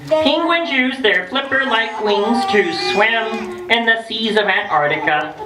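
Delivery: storybook reading. Acted. Reading book to children.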